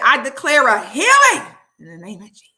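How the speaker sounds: loud, high shouting prayer command; shouted, rising declaration against the devil; fervent healing declaration. Retold or imitated. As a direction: rebuke the devil at full voice like a preacher. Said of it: "She said".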